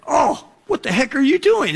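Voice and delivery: high, indignant yelp; mock outrage. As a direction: act out being kicked in the shin. Kicked in the shin, reacting.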